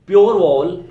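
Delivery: प्योर vowel called out high and loud; emphatic correction. Shown as a demonstration. Teacher correcting students, calling out प्योर vowel loudly. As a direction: punch प्योर vowel hard.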